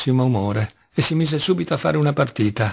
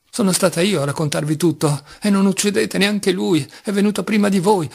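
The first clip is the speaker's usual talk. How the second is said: high, frantic begging at his feet; desperate pleading; 4 semitones higher than usual. Acted. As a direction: beg him breathlessly not to kill. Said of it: "con un grido aveva giunto le mani". (supplica disperata, voce alta e concitata)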